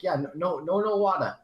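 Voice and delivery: high, loud put-on Asian accent; mock Asian accent. Firefighter reassuring the Asian lady, mock accent. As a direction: climb into an exaggerated Asian accent. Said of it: "You gotta say it in the accent".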